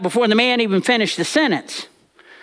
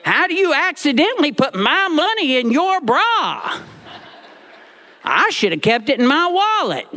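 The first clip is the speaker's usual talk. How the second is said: retold crying; 8 semitones higher than usual. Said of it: "And I'm crying at this point".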